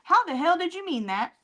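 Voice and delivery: rising, incredulous demand; indignant retort. Retold or imitated. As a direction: throw the question back at her, half-mock. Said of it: "I'm like".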